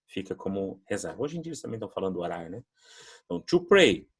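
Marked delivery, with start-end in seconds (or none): 3.2-4.1 teacher models to pray loudly, high; teacher says the words for students to repeat, loud and high; model pronunciation. Shown as a demonstration. Teacher models the verb for students to repeat, loud and high.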